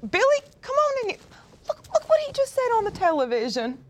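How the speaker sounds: country twang of an astonished yokel; country accent. Acted. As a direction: put on a backwoods accent, calling someone in. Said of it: "an accent like that".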